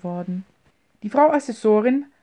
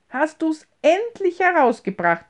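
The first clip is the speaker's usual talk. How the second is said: high, louder happy teasing; delighted exclaim; 8 semitones higher, 4 dB louder than usual. A narrator's reading. Old mother teasing her son with loud delight. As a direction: tease him in sheer delight. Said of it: "rief diese".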